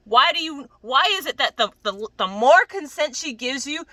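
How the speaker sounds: loud, high-pitched, exasperated rant; incredulous outburst. Real, not acted. Scolding the character over how he treats her, loud and incredulous.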